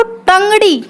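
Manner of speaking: टंगड़ी with the tongue curled back on ट; hard retroflex ट opening टंगड़ी; retroflex ट demo. Shown as a demonstration. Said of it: "जीभ मोड़कर राउंड में लेकर".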